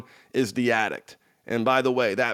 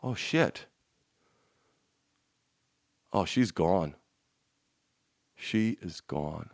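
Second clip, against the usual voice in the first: soft, slow, lower realization; husband realizing his wife has checked out, hushed; retold dread; 8 semitones lower, 9 dB quieter, slower than usual. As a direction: let it sink in quietly, a hint of shock. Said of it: "It was like".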